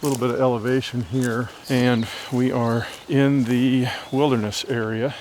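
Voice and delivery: breathing hard while hiking uphill; winded, talk between breaths. Real, not acted. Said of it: "Sorry I'm breathing hard".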